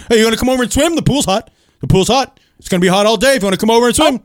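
high, puckered-lip calling over the fence; neighbor impression. Comic doing his neighbor calling him over the fence, high and eager. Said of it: "he's always like".

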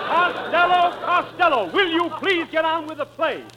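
high-pitched, impatient reprimand; exasperated calling. Acted. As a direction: call the unruly actor back to the play. Exasperated director restores order.

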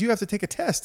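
high, stern doctor voice; a strict medic's order; doctor telling. Retold or imitated. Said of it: "He goes".

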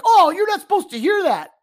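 high, loud mock gasp; mock crowd gasp. Fans reacting to an official overhearing, high mock gasp. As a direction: play a scandalized fan. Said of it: "everyone's like".

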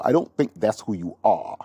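light imitation of a British accent. Trevor Noah consoling Will Smith, mild British accent. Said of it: "he said it in his British accent".

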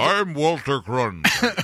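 slow, measured anchorman impression; drawn-out mock newsman voice; Walter Cronkite. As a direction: intone it like an old newscaster. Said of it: "I swear he said it sounds".

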